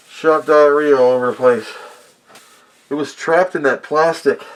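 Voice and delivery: speaking through a covered mouth; muffled voice. Real, not acted. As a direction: talk as if through a face mask. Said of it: "Sorry for the muffled voice".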